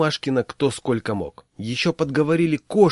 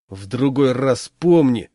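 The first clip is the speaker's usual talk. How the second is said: merciless; 6 dB louder, slower than usual. Acted. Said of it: "безжалостно сказал Пашкин".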